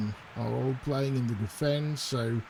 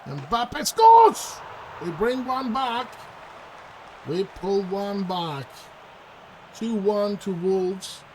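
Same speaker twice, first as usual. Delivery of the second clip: real shout, much higher and louder; big goal scream, then slower relief; goal celebration; 6 semitones higher, 6 dB louder, slower than usual. Real, not acted. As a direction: yell the goal out in joy. His team scores a goal.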